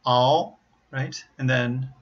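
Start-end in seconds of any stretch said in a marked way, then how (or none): 0.1-0.6 all with dark L, tongue curved; dark hollow l. Shown as a demonstration.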